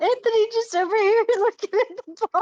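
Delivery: words pushed through laughter. Explaining to others on a call what is going on, laughing while talking. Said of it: "You're laughing too hard".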